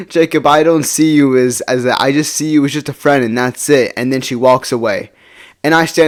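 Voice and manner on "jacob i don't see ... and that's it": imitating her laughing rejection; retold laugh-in-your-face rejection; mocking laughter. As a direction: laugh first, then a louder, dismissive brush-off. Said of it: "she just laughed in front of me".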